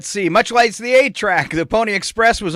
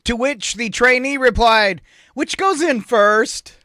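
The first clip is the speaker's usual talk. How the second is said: slow punchline; 5 semitones higher, 3 dB louder, slower than usual. Acted. Punchline delivery.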